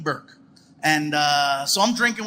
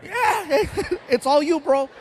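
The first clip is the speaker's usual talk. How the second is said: high, nervous giggle in the voice; mock-scared, pitched up and chuckling; nervous yielding; 8 semitones higher than usual. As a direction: give in with a squeaky little laugh. Nervously yielding seat to huge man.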